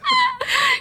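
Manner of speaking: very high, breaking laugh-like cry; high squeal. Real, not acted. Narrator moved by Mimo's new guardians, high squeal. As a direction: let out a high, helpless squeal.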